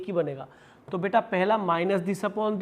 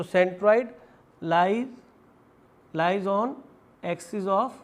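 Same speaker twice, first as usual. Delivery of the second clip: word by word, long pauses between; slow dictation; much slower than usual. Shown as a demonstration. Teacher dictating the property to students, slowly. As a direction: spell it out slowly for notes. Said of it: "तो ये axis of parabola पे आ जाएगा।".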